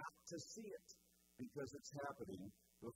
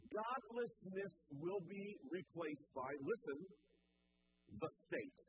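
slow dramatic reveal; 2 semitones higher, slower than usual. Real, not acted.

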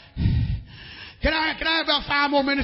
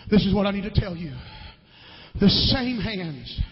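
hushed closing; 5 semitones lower, 9 dB quieter than usual. Acted. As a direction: bring it down to a near whisper. Quiet closing over piano.

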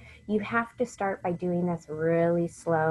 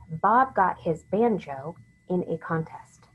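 slow, deliberate sentence for dictation; slower than usual. Shown as a demonstration. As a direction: give out each word slowly and distinctly. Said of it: "Here's the sentence".

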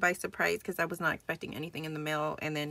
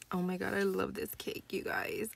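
soft whisper of delight; a hushed, breathless "you guys"; whispered aside; 7 dB quieter than usual. Real, not acted. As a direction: let it slip out as a whisper. Gushing aside about cake.

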